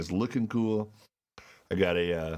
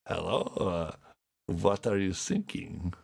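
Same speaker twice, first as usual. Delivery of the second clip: shaky attempt at a foreign U-boat operator accent; lightly put-on accent, straying toward Spanish; botched accent. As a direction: joke accent, unsure whether German or Spanish. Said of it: "you actually did a Spanish accent".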